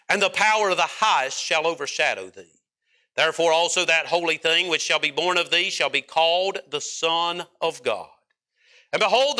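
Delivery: measured reading of the King James verse; scripture reading. Acted. Preacher reading Luke to the congregation, reverent reading. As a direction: read the Bible verse with reverence.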